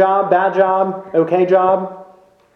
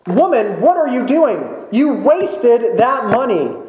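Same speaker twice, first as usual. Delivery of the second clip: mock scolding; 6 semitones higher than usual. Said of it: "they scold her".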